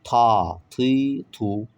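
Ta loud and heavy, ti, tu; thick ta demo. Shown as a demonstration. Teacher reading the thick version of the letter. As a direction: punch the thick Ta. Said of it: "kalınını okuyalım".

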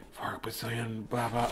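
hushed aside whisper. Acted. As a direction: whisper it in his ear.

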